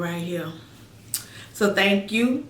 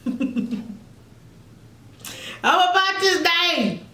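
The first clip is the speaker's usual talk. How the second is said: excited; 7 semitones higher, slower than usual. Real, not acted. High drawn-out exclamation.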